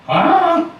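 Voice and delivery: high, slow, shocked exclamation; surprised old duck. A narrator's reading. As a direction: gasp at the ugly duckling. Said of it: "said the old duck".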